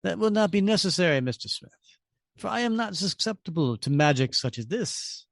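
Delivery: a hint of cool superiority; calm stranger. Stranger dismisses Red Skull, lightly voiced calm disdain.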